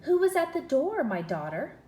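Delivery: a touch of the king. Acted. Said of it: "asked the king".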